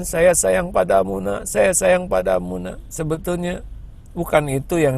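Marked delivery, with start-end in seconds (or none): 0.0-2.8 higher, mildly mock-sweet mother saying she loves her child; mother's empty words. Preacher mocking a parent who only says love, mildly higher. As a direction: say it sweetly but hollow. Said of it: "Jangan diomongin".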